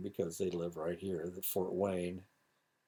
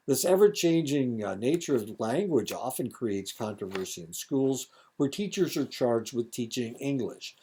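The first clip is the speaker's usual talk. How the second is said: lightly raised lecturer's reading voice; a touch of projected read-aloud; reading lesson aloud; 5 semitones higher, 8 dB louder than usual. Real, not acted. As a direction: read the textbook passage out to a class. Reads lesson text aloud.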